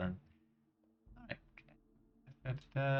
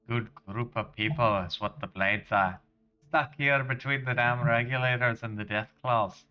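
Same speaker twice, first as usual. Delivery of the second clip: hearty generic Scottish lad-speak; terrible Scottish accent. Acted. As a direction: put on a bad Scottish accent. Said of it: "really terrible generic Scottish accent".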